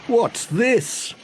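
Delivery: high baffled postman; Pat exasperated. Acted. Postman finding yet another diversion, high and baffled.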